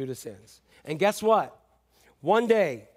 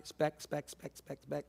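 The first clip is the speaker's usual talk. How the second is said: fading mock picking; 12 dB quieter, slower than usual. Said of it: "the speck of sawdust".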